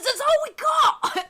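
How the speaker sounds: high, loud pirate shout with laughter; Walcott Savage Soul Byron. Acted. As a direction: shout it across, breaking into a laugh. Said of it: "he says".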